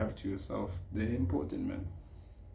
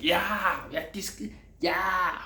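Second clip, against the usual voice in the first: high, loud mock protest; mock outraged shout; 9 semitones higher, 3 dB louder, much slower than usual. Imitating people who felt attacked.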